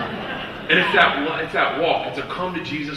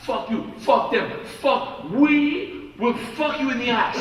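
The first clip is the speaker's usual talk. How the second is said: mock yell; 8 semitones higher, 4 dB louder, slower than usual. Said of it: "starts yelling in his face".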